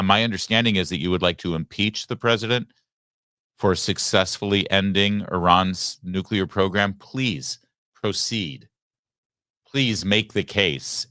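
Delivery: mock formal chairman. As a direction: savor please proceed as a trap. Mock chairman addressing Democrats.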